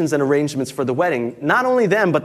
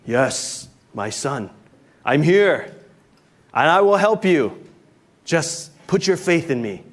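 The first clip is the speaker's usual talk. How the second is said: majestic voice. Acted. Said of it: "this majestic voice booms through the clouds".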